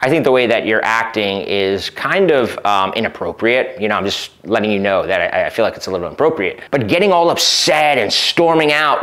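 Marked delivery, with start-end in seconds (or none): 0.0-6.6 calm boundary. Retold or imitated. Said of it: "quite simply say".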